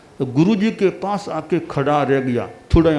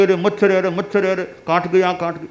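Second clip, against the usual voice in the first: imitating fussing; 3 semitones higher than usual. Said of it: "आप यूँ करने लगे".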